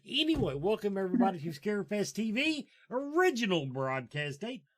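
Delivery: radio host welcome. Real, not acted. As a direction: announce the show like a radio host. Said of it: "using my radio voice".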